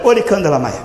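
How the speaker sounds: mock tongues phrase through a laugh; laughing imitation. Preacher laughing at a repetitive tongues speaker, laughing imitation. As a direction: laugh while parroting the phrase. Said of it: "Aí, aí".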